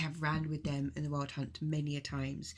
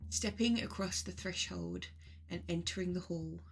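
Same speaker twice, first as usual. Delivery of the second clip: guided meditation. Acted. Leading listeners on a journey to the mead hall, guided meditation. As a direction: guide listeners unhurriedly, phrase by phrase.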